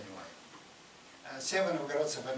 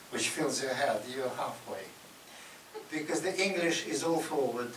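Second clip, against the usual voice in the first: ordinary talk, nothing marked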